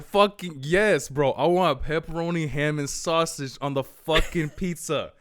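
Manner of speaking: exasperated retold yes, drawn out. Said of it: "really loud".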